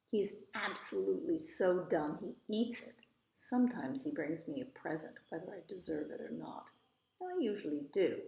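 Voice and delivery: lively, expressive storybook reading; story narration. A narrator's reading. Eloise telling about her mother and the lawyer, storybook narration. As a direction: read it as a chatty child narrator's tale.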